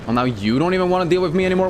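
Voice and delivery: fast, high mock offense; sarcastic jab. Real, not acted. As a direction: needle the enemy.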